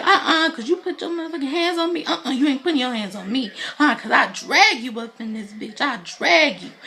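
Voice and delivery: high, mildly hammed-up angry threats; imitated crazed outburst. Woman held back from her rival, imitated angry outburst. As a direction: act out a woman going off, pitch jumping up. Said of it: "going crazy".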